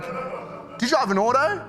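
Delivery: put-on high, slow sassy teen; sassy daughter. Daughter Gabby quizzing her dad with sass. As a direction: tease dad like a confident teen.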